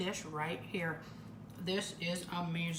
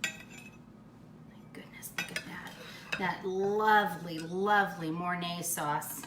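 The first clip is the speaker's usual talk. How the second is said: savoring awe; 3 semitones lower, slower than usual. Real, not acted. Admiring the hot brown.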